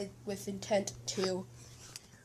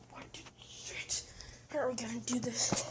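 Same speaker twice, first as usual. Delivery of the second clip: shocked whisper; 3 semitones higher, 4 dB quieter than usual. Acted. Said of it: "They're just like".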